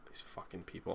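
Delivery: disgusted whisper. Real, not acted. Fed-up aside about the news photos, whispered. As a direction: hiss it out in a whisper. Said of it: "muttered disgust".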